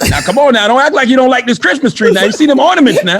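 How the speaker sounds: country man wheedling, played for laughs; country accent. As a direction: coax in a hammed-up country accent. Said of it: "Why is it always gotta go to country, too, though?".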